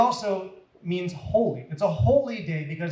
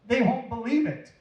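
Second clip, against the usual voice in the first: laughing; 7 semitones higher than usual. Acted. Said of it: "she laughed".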